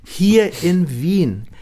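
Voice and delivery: indignant protest. Retold or imitated. Protesting to the director.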